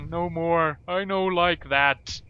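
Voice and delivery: rumbling, slow giant voice; lightly voiced lumbering giant; mountain giant voice. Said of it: "that's not the mountain giant voice I used".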